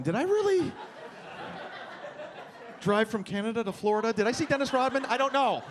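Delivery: hungover Columbo. Acted. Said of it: "like a hungover Columbo going".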